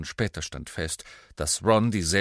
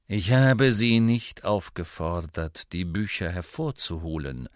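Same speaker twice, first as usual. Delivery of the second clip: stern rebuke. Acted. Snape rebukes pupils for taking books out, stern. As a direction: stretch the words with cold authority.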